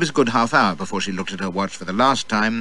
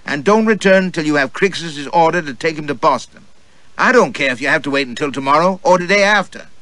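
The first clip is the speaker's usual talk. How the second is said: angry mistress; 5 semitones higher, 4 dB louder than usual. Acted. Mistress berates servant.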